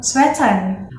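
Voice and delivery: 'sweatan' with final N for R; Thai accent. Shown as a demonstration. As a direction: say 'sweatan' Thai-style, closing on N. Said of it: "they will replace it with N".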